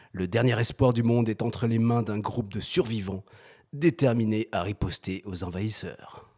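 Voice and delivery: dramatic trailer narration; movie trailer voice. Acted. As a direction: read it like a film trailer. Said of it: "T'as pris ta voix de bande-annonce".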